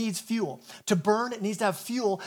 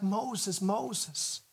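soft, tender repeat of the name; holy love; 6 dB quieter than usual. Retold or imitated. God tenderly calling Moses from the bush, softer. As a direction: say it like you cherish him, softer. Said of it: "Speaking with this holy love".

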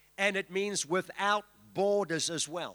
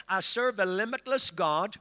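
leading a declaration. Shown as a demonstration. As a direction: lead the congregation's declaration. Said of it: "Lift your hands and say".

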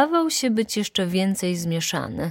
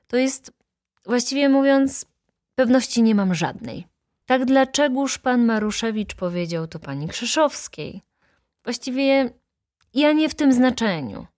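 higher-pitched, halting evasive witness; flustered hedging; 7 semitones higher, 3 dB louder than usual. Acted. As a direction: backpedal with pauses between phrases. Witness backs down under questioning. (zmieszane, wymijające tłumaczenie)

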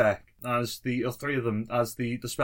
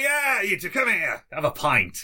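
pirate voice; 3 semitones higher than usual. Acted. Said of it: "it's like".

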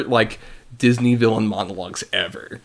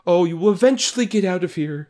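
mock-sweet villain taunt; sweetly taunting villain imitation; megalomaniac rant; 4 semitones higher than usual. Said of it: "She's like".

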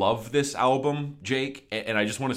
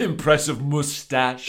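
slow, drawn-out mock singer delivery; molasses delivery; 4 semitones higher, 3 dB louder, slower than usual. Co-host finishing the quoted lyric, imitated molasses delivery. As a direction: stretch it out with playful relish. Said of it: "It's like this molasses kinda, yeah, delivery".

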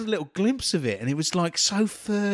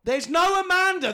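pitched up in disbelief; high, exasperated correction; exasperated high protest; 13 semitones higher, 3 dB louder than usual. Real, not acted. Exasperated at co-host.

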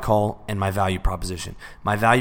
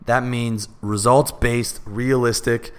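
conversational sales pitch. Shown as a demonstration. Coach demonstrating a phone pitch to a prospect, conversational and confident. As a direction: sell it like a real person, not a script. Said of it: "that's how it would sound".

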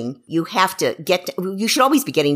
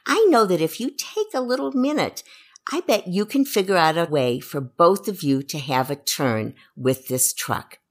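encouraging. Shown as a demonstration. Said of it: "my statement would be something like".

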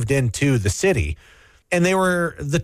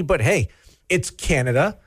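usual speaking voice

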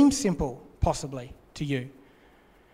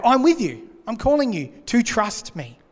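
raised reassurance; 5 semitones higher than usual. Retold or imitated. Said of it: "God's reassurance restated".

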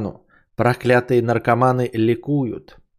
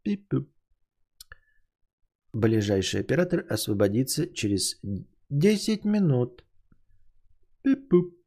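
call center hold message; 5 semitones higher than usual. Pretend. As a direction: play an automated hold line. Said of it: "Я же вам это, эм, экранизировал".

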